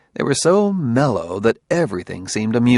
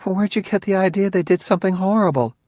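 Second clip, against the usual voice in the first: deflecting; 9 semitones higher, 3 dB louder than usual. A narrator's reading. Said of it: "She tried to deflect the question".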